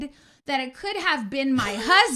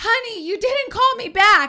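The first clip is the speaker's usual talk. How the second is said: mock high-pitched, loud, frantic, panicked voice; 9 semitones higher, 7 dB louder than usual. Speaker recalls calling her husband, who answers: imitating a frantic voice. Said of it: "he frantically answers the phone".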